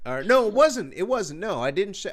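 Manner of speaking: sudden self-correction. Real, not acted. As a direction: catch the mistake out loud. Correcting himself mid story.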